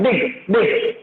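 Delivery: बिग said as one short sound; one syllable. Shown as a demonstration. Teacher showing pupils a one-syllable word, बिग in one beat. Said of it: "एक ही आवाज में हो जाता है".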